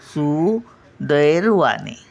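सुदैवाने said slowly, each syllable clear; slow careful सुदैवाने. Shown as a demonstration. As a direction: drag out सुदैवाने syllable by syllable, no र sound. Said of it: "सुदैवाने नाही". (सुदैवाने सावकाश, स्पष्ट उच्चार)

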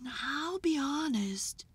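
high, thin bat voice. A narrator's reading. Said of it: "chimed in Bat".

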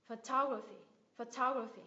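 "Photography" as pho-TO-gra-phy; stress on second syllable. Shown as a demonstration. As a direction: lean on TO in "photography", then fall. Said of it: "cái cách nhấn âm trong những cái từ này".

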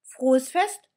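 high, loud, happy "Frohes Fest"; the doll calls her wish across the street; bright high shout of "Frohes Fest"; calling out. Acted. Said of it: "ruft Annabella".

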